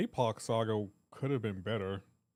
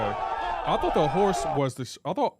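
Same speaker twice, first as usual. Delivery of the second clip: cracking up, a little louder; laughing; 3 semitones higher, 5 dB louder than usual. Real, not acted. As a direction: laugh at your own mistake mid-sentence. Realising his mix-up about Schultz.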